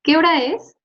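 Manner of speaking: "¿Qué hora es?" asked with a high rising question tune; question intonation. Shown as a demonstration. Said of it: "les damos cierta entonación".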